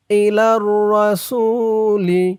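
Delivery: ইলার রাসূলি with the r held with shadda; doubled r. Shown as a demonstration. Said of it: "তাসদিদ ওলা এই র কে ধরবে". (ইলার রাসূলি র তাশদিদসহ)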